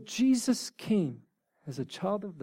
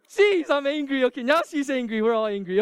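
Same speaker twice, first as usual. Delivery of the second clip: mock anger; 8 semitones higher, 6 dB louder than usual. Joking about being angry.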